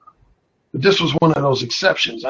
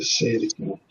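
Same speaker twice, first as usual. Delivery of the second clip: seductive murmur; 6 dB quieter than usual. Retold or imitated. His hushed seductive reply.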